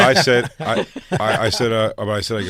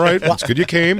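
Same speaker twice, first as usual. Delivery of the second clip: mock therapist; 8 semitones higher, 5 dB louder than usual. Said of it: "You go".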